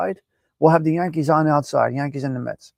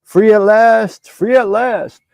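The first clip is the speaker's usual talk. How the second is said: Carlito quote; 4 semitones higher, 3 dB louder, much slower than usual. Retold or imitated. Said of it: "remember when Carlito went in front of that judge".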